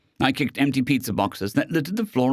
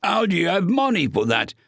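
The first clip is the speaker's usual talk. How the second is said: menacing robot gunman; 8 semitones higher than usual. Acted. Robot asks.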